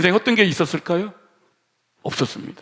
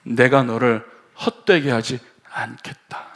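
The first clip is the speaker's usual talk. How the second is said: God's gentle promise; 8 semitones lower, 4 dB quieter, slower than usual. Retold or imitated. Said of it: "그렇게 말씀하시는 건 아니고요".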